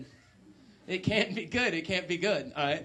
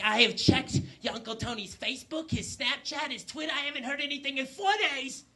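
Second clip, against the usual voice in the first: worried mother; 4 semitones higher than usual. Acted. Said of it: "She's like".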